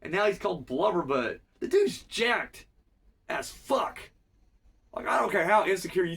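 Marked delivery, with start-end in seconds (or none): 1.6-4.1 high, slow, stretched-out disbelief; drawn-out emphatic awe. Real, not acted. Host marvels at the character's muscles, high and drawn out. Admiring exaggeration about Jax.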